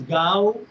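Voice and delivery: "Gau" said as a syllable on its own; "Gau" as the first of two syllables; separate syllable. Shown as a demonstration. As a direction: sound out "Gau" alone, without the final S. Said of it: "there are two syllables over here".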